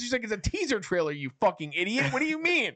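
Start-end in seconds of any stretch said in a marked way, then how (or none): 0.2-2.1 high, scornful retold comeback; mock exasperation. She answers his panic about the video, mock exasperation. Retold quarrel over the trailer. 2.1-2.7 very high, panicked disbelief, mimicked; retold freak-out. Retelling him freaking out at the laptop, mock panic. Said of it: "he's freaking out before".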